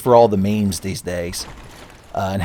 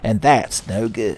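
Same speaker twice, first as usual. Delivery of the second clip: Sonic catchphrase; slower than usual. Retold or imitated. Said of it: "every impression I have of Sonic".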